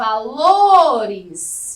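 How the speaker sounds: valores called out loudly, strongest stress on lo. Tip for finding the stressed syllable, as if calling: valores called out, LO strongest. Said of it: "como se você estivesse chamando... o lo a gente pronuncia com mais força".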